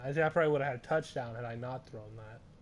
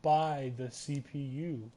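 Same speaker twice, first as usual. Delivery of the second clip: announcer voice; 3 dB louder, slower than usual. Pretend. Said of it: "I'm speaking in my announcer voice".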